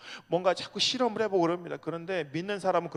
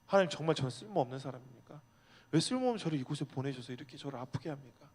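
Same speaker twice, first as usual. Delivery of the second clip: humble plea; 3 semitones lower, 6 dB quieter than usual. Retold or imitated. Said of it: "하나님한테 물어야 됩니다".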